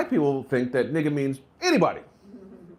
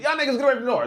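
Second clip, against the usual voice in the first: shouted order; 10 semitones higher, much faster than usual. Shown as a demonstration. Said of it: "That could be a group of Asians".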